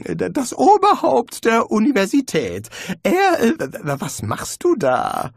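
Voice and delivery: frightened wizard blurting out a secret; nervous wizard. A narrator's reading. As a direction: blurt it out, anxious and high. Rincewind voiced by narrator.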